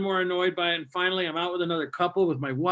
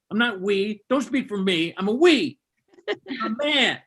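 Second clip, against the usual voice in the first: snapping rant; 3 semitones higher than usual. Retold or imitated. Husband snapping at wife in the restaurant, mock angry rant. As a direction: snap back at her, hammed-up. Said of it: "I snapped".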